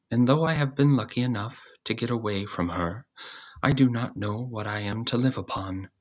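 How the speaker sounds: put-on old cat.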